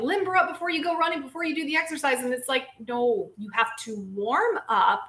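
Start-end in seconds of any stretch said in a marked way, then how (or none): 0.0-2.2 imitating a coach. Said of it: "They would tell you".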